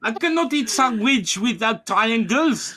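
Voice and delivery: high, laughing mock child protest; whiny son voice. As Ludwig refusing his mom, whiny and high. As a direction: whine back at mom while laughing.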